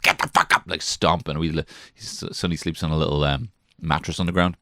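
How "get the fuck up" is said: mock angry mum. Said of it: "The speaker going full my ma mode".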